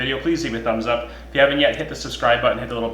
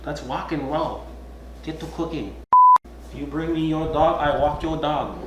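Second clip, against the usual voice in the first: punny mock voice; 6 semitones higher, slower than usual. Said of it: "We could be punny and be like".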